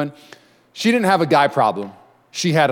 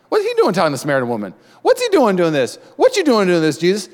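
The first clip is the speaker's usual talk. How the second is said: high-pitched, incredulous questioning; baffled, rising in pitch as they question it; surprised disciples; 5 semitones higher than usual. Acted. Disciples questioning Jesus about the Samaritan woman, surprised. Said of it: "they're surprised".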